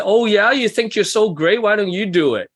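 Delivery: mock sarcastic jab. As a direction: sneer it like a stressed analytical. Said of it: "they can be sarcastic".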